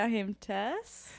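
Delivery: slow, put-on way of saying her name; odd intro voice. Host introducing herself in an odd put-on voice. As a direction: drag out the name like a strange host. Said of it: "What was that?".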